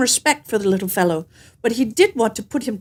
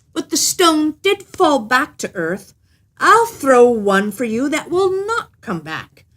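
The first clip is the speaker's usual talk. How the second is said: slow, lightly raised bragging tailor; a touch of cocky little man; boastful little tailor; 4 semitones higher, slower than usual. Acted. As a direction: savor the boast, unhurried.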